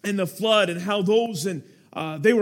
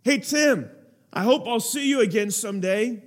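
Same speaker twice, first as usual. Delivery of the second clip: calling out. Retold or imitated. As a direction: holler it to someone walking away. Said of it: "he hollers out at me".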